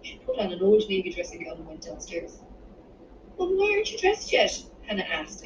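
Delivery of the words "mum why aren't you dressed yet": put-on very high, indignant child voice; high-pitched, shocked kid's question; aghast child. A narrator's reading. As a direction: demand it, appalled at Mum. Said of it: "aghast at the state of her mother".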